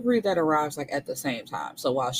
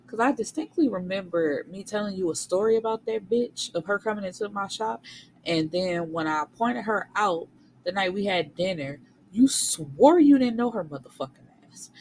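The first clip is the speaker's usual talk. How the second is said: angry confrontation; 3 semitones higher than usual. Retold or imitated. Confronting her lying husband, angry rising accusation. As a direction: tear into him, rising to a yell.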